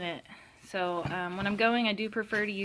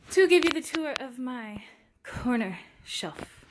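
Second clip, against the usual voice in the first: slightly winded speech; talking while catching breath; 4 semitones higher than usual. Real, not acted. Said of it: "I'm a little out of breath".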